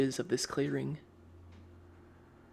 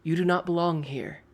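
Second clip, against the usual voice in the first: put-on a light, slightly higher French-like accent; an elf warning strangers off in a mild French-like accent; 4 semitones higher than usual. Elf hunter warning intruders off, in a hint of French-like accent. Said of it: "in that thick French-like accent".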